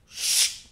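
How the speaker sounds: soft unvoiced shh of tearing fabric; ripping hiss. Rabbi acts out the knife cutting the pillow, soft hiss. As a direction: hiss out the pillow being slit. Pillow being cut open.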